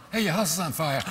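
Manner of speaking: alarmed shouted warning; urgent shout. Shown as a demonstration. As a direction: yell it like the house is really burning. Urgent second take, shout heard.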